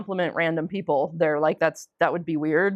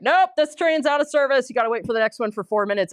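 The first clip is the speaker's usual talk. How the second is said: brusque staff announcement; 4 semitones higher than usual. Retold or imitated. Train staff turning passengers away.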